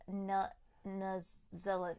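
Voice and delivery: Kiwi 'Zealand' with a short uh; New Zealand accent. Shown as a demonstration. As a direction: demonstrate the New Zealand vowel. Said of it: "I's become".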